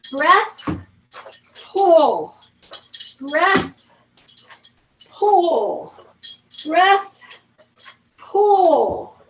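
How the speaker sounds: steady breath and pull calls; rep cues. Shown as a demonstration. Instructor calling breath and pull cues. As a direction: coach pacing the class through reps. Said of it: "counting reps".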